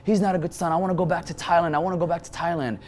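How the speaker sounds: high, hammed-up yelled complaint; retold yelling. Mother yelling at her son outside the car. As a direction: yell it over and over at the son. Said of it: "She starts yelling".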